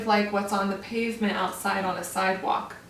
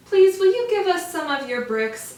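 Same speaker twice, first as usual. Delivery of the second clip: pleading little wolves; 7 semitones higher, 5 dB louder than usual. Acted. Wolves politely ask kangaroo.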